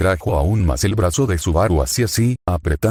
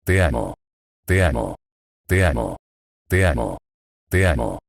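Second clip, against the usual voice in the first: bruja susurrando; 5 semitones lower than usual. Acted. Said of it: "Mientras susurraba el amor".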